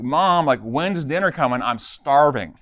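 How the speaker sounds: mock yell for dinner; retold yell. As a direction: mildly mimic a hungry kid calling out to mom. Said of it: "she yells out".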